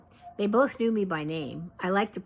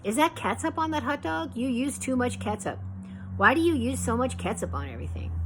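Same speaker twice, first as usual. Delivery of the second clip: teasing grandfather; 6 semitones higher than usual. Retold or imitated. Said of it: "he would laugh so hard".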